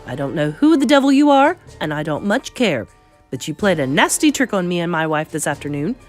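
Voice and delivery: indignant father demanding answers. Acted. Angry father confronts the grandmother.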